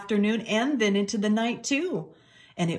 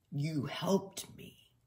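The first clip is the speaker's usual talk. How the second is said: grudging gratitude; 9 dB quieter, much slower than usual. Acted. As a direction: clear throat, admit it softly. Ned grudgingly grateful.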